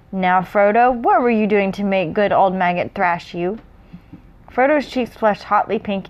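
measured read-aloud narration; story narration. A narrator's reading.

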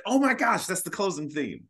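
high, bright burst of recognition; light up as if recognising the tune; recalling the moment the theme clicked; excited realisation. Retold or imitated. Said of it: "I was like".

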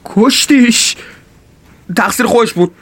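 panicked justifying. Acted. Panicked after the killing.

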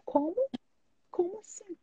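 rising, breaking voice, close to tears; shocked disbelief. Retold or imitated. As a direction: caught off guard, voice cracking up high. Shocked at month of silence. (espanto com a voz embargada)

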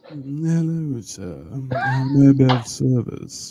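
low, slow, softened butler voice. Shown as a demonstration. Host showing off his butler voice on request, low slow butler. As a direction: draw it out low, like a sultry butler. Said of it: "let me hear your butler voice".

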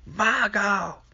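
calling Michael high and wailing, with a touch of crying; mock anguished calling. Loomis searching outside, hammed-up wailing call for Michael. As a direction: wail the name out into the night, hammed-up. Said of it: "he's sort of like".

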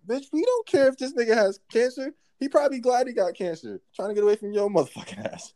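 high-pitched, retold rant at a customer; squeaky mocking voice, thrown back at her; mock Karen rant. Mimicking the Karen at the customer, high and squeaky. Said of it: "And I'm like".

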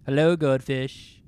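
booming greeting. Acted. Seth greets the cheering goldfish army from the balcony, loud and grand. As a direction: hail them from the balcony.

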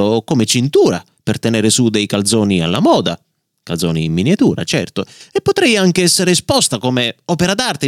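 lightly voiced proud bookmark, mildly huffy; a touch of wounded pride; indignant bookmark voice. Leather bookmark demanding a better name, mildly indignant. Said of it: "sbottò in presenza di tutti".

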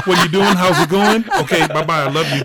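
high, loud, rushed phone check-in; brisk caring teacher. Retold or imitated. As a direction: hurry through a short call. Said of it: "she made sure we didn't talk".

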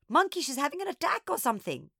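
high-pitched alarm; alarmed, voice jumping up high; alarmed gasp. A narrator's reading. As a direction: blurt it out in a panic. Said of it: "I gasped".

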